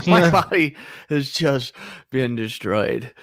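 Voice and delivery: laughing shout, slowing down. Real, not acted. Laughing about being worn out.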